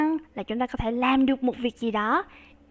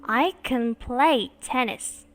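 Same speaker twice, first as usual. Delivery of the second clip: slow with "play" stressed; slow model; slower than usual. Shown as a demonstration. Teacher modelling slowly for class, "play" stressed. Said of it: "Cô đọc lại cho các bạn nghe nha".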